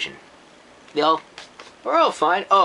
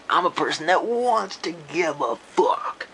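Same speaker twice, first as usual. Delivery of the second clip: whispered. Real, not acted. Critic confessing to viewers, whispered. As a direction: confide it in a whisper. Earnest aside.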